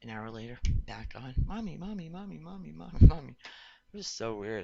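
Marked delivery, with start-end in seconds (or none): 1.5-3.4 higher, sing-song toy voice; talking toy. Retold or imitated. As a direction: chant it like a toy stuck on repeat. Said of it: "she had this toy".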